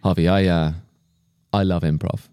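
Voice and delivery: put-on American accent. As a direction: play a laid-back American director, low-pitched. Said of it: "super American dude".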